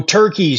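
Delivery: "Turkey" said as "turk-EYE"; renamed Turkey. Shown as a demonstration. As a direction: stretch the end of "Turkey" into "eye". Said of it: "started getting called Turkey".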